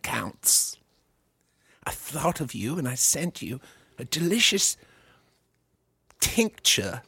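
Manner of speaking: a lightly voiced genteel father, with a few breathy asides; a comedian on a podcast plays his co-host's dad phoning his son, lightly genteel; friend's dad impression. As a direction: play a doting, over-refined dad calling his son. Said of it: "I'll try to do your dad".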